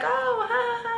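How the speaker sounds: high fake little ha-ha; mock nervous laugh.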